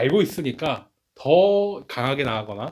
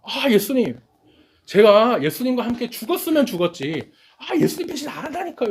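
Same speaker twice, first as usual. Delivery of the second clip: pitched much higher, a hammed-up pleading insistence; forceful disciple vow; 9 semitones higher, 3 dB louder than usual. Preacher acting the disciples swearing loyalty to Jesus, high, hammed-up insistence. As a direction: play a disciple swearing he'll never betray, high and straining. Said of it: "이렇게 강하게 얘기한".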